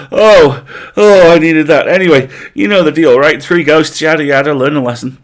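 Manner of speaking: loud, high laughing ghost; hammed-up laughter between words. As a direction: still giggling through the words. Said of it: "wiped a tear of laughter".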